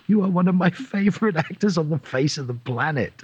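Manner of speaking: high-pitched retold fan outburst; starstruck gushing. Fan meeting a favourite actor at Comic Con, starstruck gushing. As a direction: gush in disbelief at your idol. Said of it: "I'm like".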